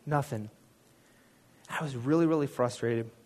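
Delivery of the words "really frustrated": ordinary delivery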